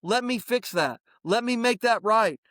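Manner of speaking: smiling apology. Shown as a demonstration. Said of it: "Just look at them and smile and go".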